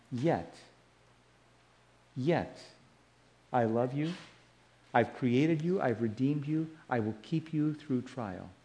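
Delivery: soft, spaced-out words of comfort; hushed, unhurried promise of love; tender reassurance. Acted. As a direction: speak quietly as God consoling the troubled, pausing after each "yet". Preacher voices God's love to exiles.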